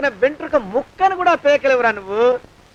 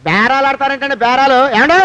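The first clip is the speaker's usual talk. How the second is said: threatening call; 4 dB louder than usual. Acted. Shouts to threaten exposure.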